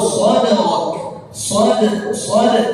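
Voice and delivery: "sadrak" with a bouncing dal; "sad-" with a clear echo on the dal; qalqalah on dal. Shown as a demonstration. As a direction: let the dal in "sad-" rebound. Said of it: "Kecuali huruf dal".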